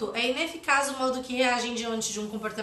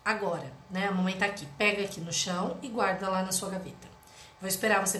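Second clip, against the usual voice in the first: gentle mother; 4 semitones lower than usual. Acted. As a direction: coax the kid close up, patiently. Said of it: "vou chegar pertinho deles e vou falar".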